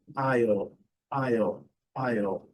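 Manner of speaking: isle with silent S and dark L; same as aisle. Shown as a demonstration. Teacher models it as same sound, careful demo. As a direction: say isle like "ai-ol", falling. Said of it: "é a mesma pronúncia do".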